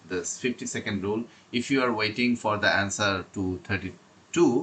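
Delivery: slow, deliberate reading of prepared notes; slow read-aloud. Acted. Teacher reading exam tips to students, slow and deliberate. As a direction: read each phrase out carefully, like a script.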